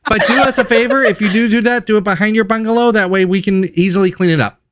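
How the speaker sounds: high-pitched kobold voice. Acted. Kobold asking cat guest a favor, high-pitched. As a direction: ask the favor in a high little creature voice. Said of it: "No, this was a kobold".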